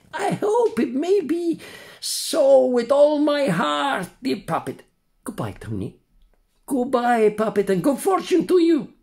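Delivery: high, far-off voice of a poor swallowed tunny; sad old tunny. Acted. Tunny introduces himself to the puppet, high and mournful. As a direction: play a mournful tunny fish.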